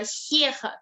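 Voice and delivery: Tchekhov à russa, com "ch" suave e "kh" aspirado; pronúncia russa leve. Retold or imitated. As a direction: diga Tchekhov levinho, como "xié-ha". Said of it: "ela falava tão levinha". (pronúncia russa levinha de Tchekhov)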